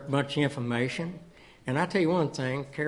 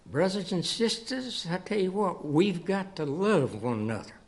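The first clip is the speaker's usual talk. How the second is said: preacher's call; 4 semitones higher than usual. Retold or imitated. Grandfather's stern message retold.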